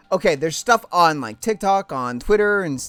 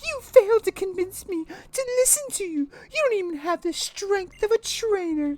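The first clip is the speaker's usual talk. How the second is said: haughty high mother; 12 semitones higher than usual. Acted. Mother Lusamine scorning Lily, high and haughty. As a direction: look down on her daughter.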